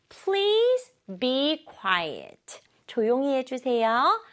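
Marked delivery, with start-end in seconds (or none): 0.1-2.6 very slow, word by word; slow demonstration. Shown as a demonstration. Teacher modelling a request for young learners, slowly. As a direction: stretch each word out for learners. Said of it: "천천히 말해볼게요".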